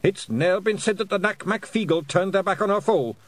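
high Scots war cry, moderately loud; yelled defiance. A narrator's reading. Pictsie leader refusing to flee whale, high defiant yell. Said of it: "Rob yelled".

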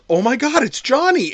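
high-pitched imitated shock; mock alarm. Host voicing the heroine seeing her brother, high mock alarm. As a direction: play a startled horror heroine.

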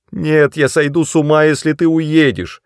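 high, loud desperate cry. A narrator's reading. Sister screams at her brother not to leave. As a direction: scream it at him in despair. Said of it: "закричала Несси".

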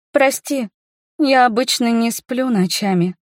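usual speaking voice

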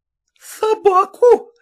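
slow, high, outraged cry; indignant outburst. Acted. Masseuse flaring at being called a dog, outraged. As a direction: flare up at the insult. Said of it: "воскликнула была опять вся вспыхнув".

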